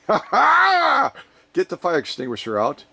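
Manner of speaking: laughing, slow mock shout; mock alarm. Laughing mock alarm over spicy chili chocolate. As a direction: joke shout at the hot chili. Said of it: "is this a spicy one?".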